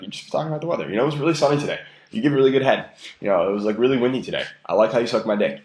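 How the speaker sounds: casual small-talk delivery, as if remarking on sunshine; weather tone. Shown as a demonstration. Coach demoing a line for a girl, casual weather tone. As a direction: toss it off like a weather report. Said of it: "you say it in the weather tone".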